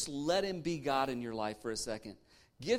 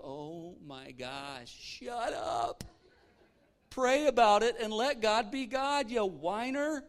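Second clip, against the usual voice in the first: hammed-up rant, loud and slow; mock outburst at a complainer; exasperated tell-off; 4 semitones higher, 4 dB louder, much slower than usual. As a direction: blow up at a whining friend. Telling off a whining friend.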